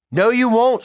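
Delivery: sharp high shout; shouted refusal. Acted. Girlfriend refusing his protest, shouting high and loud. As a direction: fire it back at him. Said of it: "she shouted".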